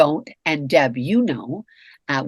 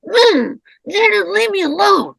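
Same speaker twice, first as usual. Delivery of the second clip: much higher, louder cranky snap; cranky outburst; 12 semitones higher, 6 dB louder than usual. Retold or imitated. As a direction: let the crankiness out loud.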